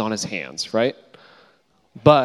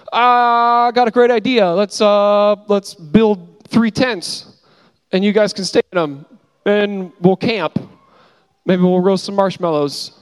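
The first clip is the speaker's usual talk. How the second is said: much higher and louder, slow, overexcited camp planner; eager Peter; 7 semitones higher, 5 dB louder than usual. Retold or imitated. Peter blurting his plan to Jesus, Moses and Elijah, high and giddy. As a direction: pitch Peter's tent idea like a giddy kid. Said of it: "and Peter's like".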